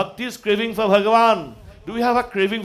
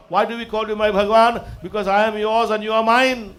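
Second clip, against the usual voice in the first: raised, devotional preaching voice; fervent declaration to God; 3 semitones higher, 5 dB louder than usual. Acted. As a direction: declare devotion with full conviction. Devotional declaration to God, then mimicked.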